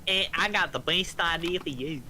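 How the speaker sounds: slow, exaggerated American drawl; mock American accent. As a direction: imitate a friend slipping into American. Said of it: "Why'd you slip into American".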